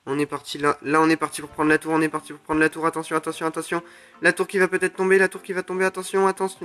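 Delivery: rising, repetitive commentary building in excitement; excited play-by-play. Real, not acted. Player watching the tower about to fall, excited play-by-play.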